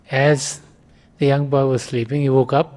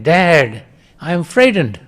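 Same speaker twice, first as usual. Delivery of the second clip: mock shout; 2 semitones higher, 3 dB louder than usual. Boy shouts to his father again, mildly. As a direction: call for Dad again, still frightened. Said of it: "he shouts again".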